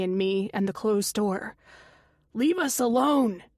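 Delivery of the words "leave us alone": brave shout. Acted. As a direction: stand your ground and shout it. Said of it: "he shouts bravely".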